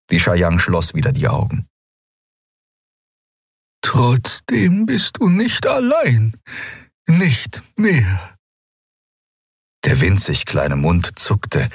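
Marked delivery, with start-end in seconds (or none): 3.8-8.4 put-on much higher, slow, awed young voice; young healer Xea. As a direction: speak with reverent wonder, slowly. Xea comforts Aylan. (hohe, langsame, ehrfürchtige Stimme)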